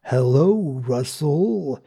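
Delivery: slow robotic greeting; drawn-out synthetic-sounding delivery; distorted computer voice. Acted. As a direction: imitate a distorted computer speaking. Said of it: "a distorted voice says".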